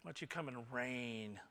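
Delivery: suddenly soft and low; tender invitation. Acted. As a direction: drop to a hushed, intimate offer. God's tender invitation after loud build.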